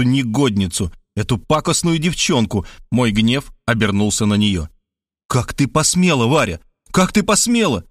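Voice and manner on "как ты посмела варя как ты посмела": mild mock frenzied cry, barely raised; a hint of a furious outburst at Varya; frenzied shouting. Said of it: "иступлённо кричал я". (лёгкий намёк на исступлённый крик)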